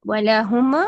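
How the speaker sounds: وَلَهُمْ with the meem held without moving the lips; teacher models وَلَهُمْ with still lips on meem. Shown as a demonstration. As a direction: say وَلَهُمْ keeping the lips steady on the م. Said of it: "میم نہیں ہلائیں۔".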